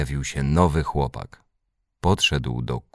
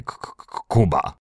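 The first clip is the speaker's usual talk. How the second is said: halting K-K-K, then Kuba released; stuttered name. A narrator's reading. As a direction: repeat the hard K before the name gets out. Stutter contrasted with plain name.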